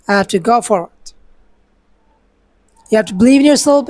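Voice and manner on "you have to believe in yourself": louder and higher, rallying; booming motivational speech. Acted. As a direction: pump up the crowd. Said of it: "speaking like a motivational speaker".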